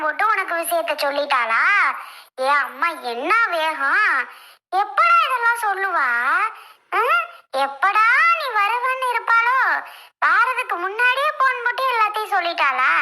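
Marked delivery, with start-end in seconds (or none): 4.8-12.9 angry scolding. Acted. Mother scolds her son for believing his wife, angrily. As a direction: let it fly at him, pitch climbing.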